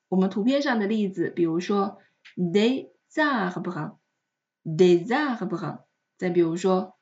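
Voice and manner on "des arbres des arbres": DES ARBRES linked as "dé-zarbres"; liaison with Z. Shown as a demonstration. Teacher gives a chart example, Z linking DES ARBRES. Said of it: "它都是发成了Z的音".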